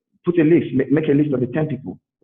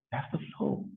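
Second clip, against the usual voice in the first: whisper; 14 dB quieter than usual. Shown as a demonstration.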